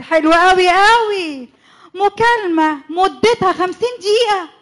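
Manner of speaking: slow bitter sarcasm breaking into crying; seethe, then crack up in tears. Acted. Wife's suspicion turning to tears.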